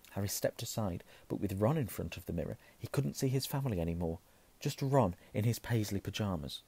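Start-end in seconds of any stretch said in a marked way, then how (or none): none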